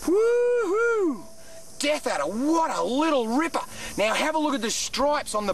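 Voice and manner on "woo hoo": high, loud joyful whoop; excited whoop. Real, not acted. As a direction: whoop with delight. Thrilled after nearly stepping on snake.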